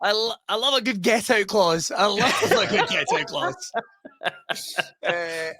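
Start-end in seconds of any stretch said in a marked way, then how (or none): 0.0-3.8 laughing through the line, delighted; giggling as he savours the phrase. Real, not acted. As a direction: chuckle the phrase out twice. Laughing while repeating.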